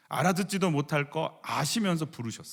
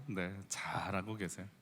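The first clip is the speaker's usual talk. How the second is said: gentle reassurance; 6 semitones lower, 12 dB quieter, slower than usual. Shown as a demonstration. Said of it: "이렇게 한번 인사해 볼까요?".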